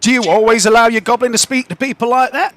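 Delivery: a prim official disapproving of the goblin; indignant city guard voice; stern town guard. Acted. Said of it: "the guard looks at the rest of you and says".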